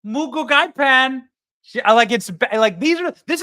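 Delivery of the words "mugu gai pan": lightly imitated Chinese accent, slow and higher; mock Chinese accent. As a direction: imitate a mother-in-law faking a Chinese accent. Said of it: "starts speaking in a Chinese accent".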